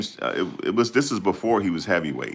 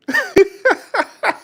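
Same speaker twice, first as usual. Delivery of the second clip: a loud, high laugh at his own bit; high laughing burst; 6 dB louder than usual. Real, not acted.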